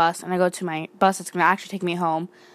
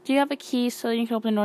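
panicked plea; 5 semitones higher, faster than usual. Retold or imitated. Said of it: "So I'm, like, freaking out".

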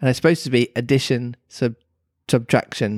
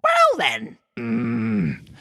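Griffin; slower than usual. Acted. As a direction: keep the squeaky Griffin going. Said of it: "the Griffin went on".

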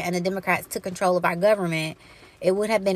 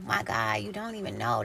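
much lower and softer, almost to herself; hushed dismay; 10 semitones lower, 7 dB quieter than usual. Real, not acted. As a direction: let it sink, low and hushed. Overwhelmed sigh at the world.

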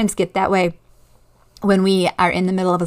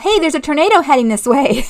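higher-pitched mock warning yell; retold yell; 5 semitones higher, 3 dB louder than usual. Someone driving past warns of a tornado, imitated yell. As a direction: imitate a passer-by calling out urgently. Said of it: "someone drives past and yells out".

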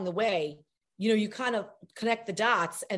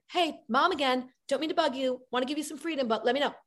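worried mom; 6 semitones higher than usual. Pretend. Worried mom texting again.

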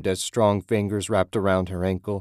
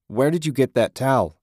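higher, louder demand; angry repeat; 6 semitones higher, 5 dB louder than usual. A narrator's reading. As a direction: press him harder. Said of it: "he repeated".

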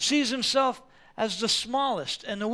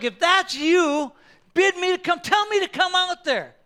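eager pleading; 8 semitones higher, 7 dB louder than usual. Acted. Peter begging Jesus to call him out, high and loud. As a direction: call it out across the water.

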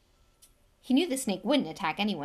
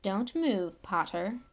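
lazy drawl; slower than usual. Acted. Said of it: "said Snape lazily".

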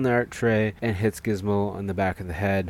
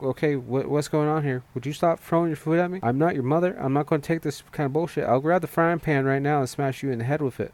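higher, exasperated mock scolding; mock exasperated rant; 6 semitones higher than usual. Frazzled Kate yells at the fake Gizmo, higher and exasperated. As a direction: rant at a food-throwing toddler, half-joking. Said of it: "And she's like".

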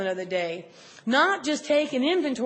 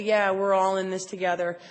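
lower, easy accepting voice; imagined kindly reassurance, pitched down; gentle togetherness; 4 semitones lower than usual. Retold or imitated. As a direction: say it gently, as one of the group. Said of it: "I would rather feel like".

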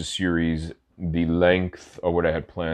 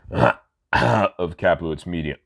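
raspy throat, clearing it; hoarse voice, throat catching; smoker's rasp. Real, not acted. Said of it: "Smoker's cough".

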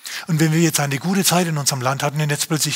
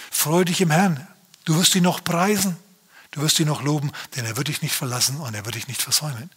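lightly voiced, uplifting self-encouragement; David cheering on his own soul, a touch brighter; encouraging his soul. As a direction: lift your soul up, then soften. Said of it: "David steht neben sich und sagt".

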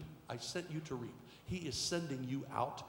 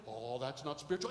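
dismissive thought; 2 semitones lower than usual. Retold or imitated. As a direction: wave it off under your breath. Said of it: "you think".

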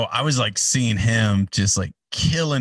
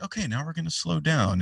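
higher-pitched, lightly voiced announcer line; announcer changing cadence; 7 semitones higher than usual. Announcer shifting the show's pace, lightly put-on patter. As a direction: demonstrate easing the crowd down. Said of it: "different cadences".

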